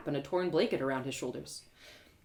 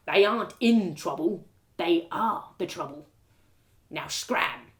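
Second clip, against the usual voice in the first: gruff guard; slower than usual. Acted. Castle guard lectures narrator about beggars, scornful. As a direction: sneer like a bossy castle guard.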